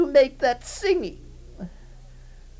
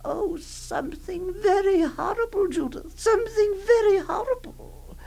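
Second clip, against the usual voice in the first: voice breaking; 3 semitones higher than usual. Acted. Aunt's voice breaks while warning.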